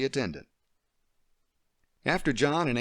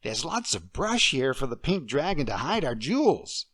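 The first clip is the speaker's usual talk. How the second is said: put-on higher, regal little girl queen; a little girl playing queen; child playing queen; 4 semitones higher than usual. Emily playing the queen for Deirdre.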